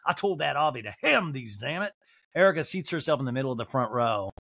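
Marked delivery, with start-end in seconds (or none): 0.1-1.9 higher, drawn-out mock apology; fussy drawl, dropping off at the end; Sutton. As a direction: complain in a put-on drawl. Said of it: "shuffling like an old grandma".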